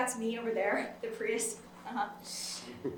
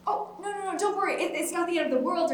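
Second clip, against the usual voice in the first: higher-pitched anxious reassurance; high, hurried no-no-no; hasty reassurance; 6 semitones higher than usual. Acted. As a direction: wave off their worry, pitched up high. Hurriedly reassures the person who stopped.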